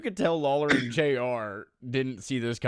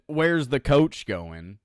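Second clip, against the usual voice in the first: slow retold quote; 5 dB louder, slower than usual. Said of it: "from when J R said".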